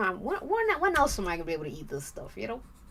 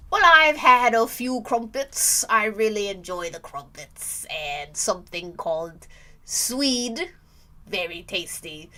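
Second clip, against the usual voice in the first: put-on British accent; hint of a posh British voice; 5 dB louder than usual. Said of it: "Your British accent makes you sound like a robot".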